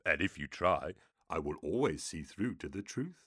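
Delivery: ominous demon speaking prophecy. A narrator's reading.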